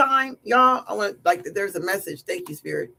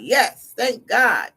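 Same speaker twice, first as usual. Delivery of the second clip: mildly louder, imitating his relief; happy relief; 4 dB louder, much slower than usual. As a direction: act out his happy thanks. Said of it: "He's happy".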